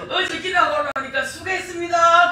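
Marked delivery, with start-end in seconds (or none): 1.2-2.3 slow, lilting polite thanks; imitating new gentle thanks. Preacher imitates husband's new polite thanks to her, gentle. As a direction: draw out the thanks sweetly. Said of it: "그러더라고요".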